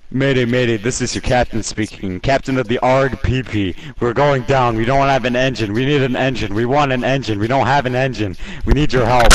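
mayday radio call. Pretend. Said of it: "let's do that again".

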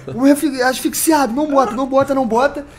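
panicked yell. Retold or imitated. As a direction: beg loudly not to get the mask. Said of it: "eu comecei a gritar". (súplica alta e assustada)

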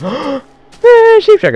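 mocking a Welsh stereotype; loud, high mock Welsh jibe; mock Welsh accent.

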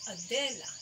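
Adela as a short note, then an accented DE, falling; accented second syllable. Shown as a demonstration. Music teacher matching syllables to notes, accented second syllable. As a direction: lean on the middle of "Adela". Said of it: "a note plus an accented note".

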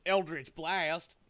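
drawn-out loud battle cry; spell shout. Acted. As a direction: shout the spell name slow and big. Warlock shouting spell name.

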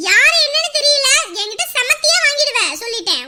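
loud, furious warning to a stranger; furious at a man teasing her from the road; angry threat. Acted. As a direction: shout him off, ready to hit.

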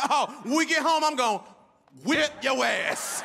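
a mother busting in to threaten her son; mock angry threat. Mock furious parent threat, stretched out. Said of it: "I bust in the room and say".

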